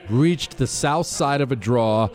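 formal citation read over music; crisp military citation. Acted. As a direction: read it like an official military commendation. Reads the medal citation aloud.

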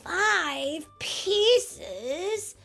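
put-on high, drawn-out childish whine; whining. A narrator's reading. Little Pea protesting to his parents, high whining. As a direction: whine it in rising disbelief. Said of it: "he whined".

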